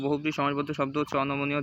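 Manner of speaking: fast repeat of the answer already given; quick recap. Shown as a demonstration. Teacher quickly repeating the answer for students, fast.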